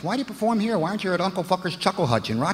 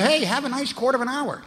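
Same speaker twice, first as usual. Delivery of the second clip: cheery wish; 9 semitones higher than usual. Retold or imitated. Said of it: "You said".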